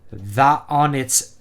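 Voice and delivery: halting, very slow Irish brogue; Irish accent. Acted. Reader stumbling over phonetic dialogue, in a slow Irish accent. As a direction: puzzle out the Irish dialect word by word. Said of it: "It'd be like".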